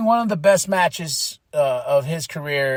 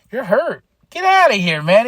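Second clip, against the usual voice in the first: high, louder disbelieving call; incredulous outburst; 5 semitones higher, 5 dB louder than usual. Retold or imitated. Fan shocked at a faked injury, rising incredulous. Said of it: "I'm like".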